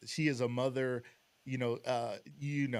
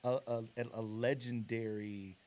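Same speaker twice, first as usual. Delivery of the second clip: solemn pulpit delivery; church voice; 5 semitones lower, 4 dB quieter than usual. Acted. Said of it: "This voice that you're using is crazy".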